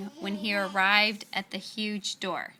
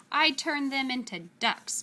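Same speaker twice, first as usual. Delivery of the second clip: bellowed; 4 semitones higher, 3 dB louder than usual. Acted. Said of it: "bellowed Gasazi".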